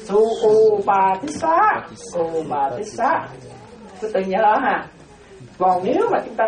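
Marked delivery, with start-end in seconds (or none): 0.0-3.2 Ubatissa drawn out slowly; slow careful name. Shown as a demonstration. Monk teaching the original name to lay followers, slow. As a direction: pronounce Ubatissa syllable by syllable. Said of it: "tên thật ông ta tên là gì?".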